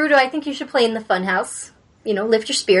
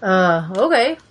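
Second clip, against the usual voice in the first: wrestler voice, barely changed; a hint of a big wrestler; booming wrestler boasts; 3 semitones lower, slower than usual. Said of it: "Is that your wrestler voice?".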